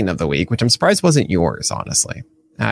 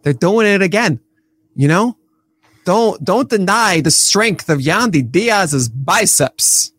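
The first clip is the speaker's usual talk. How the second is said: mock Baltimore accent; 4 semitones higher, slower than usual. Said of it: "is this a Baltimore accent?".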